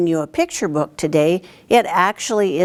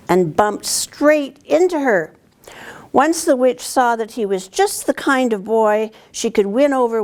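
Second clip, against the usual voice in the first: storybook reading; 3 semitones higher than usual. A narrator's reading. Teacher reads picture book aloud.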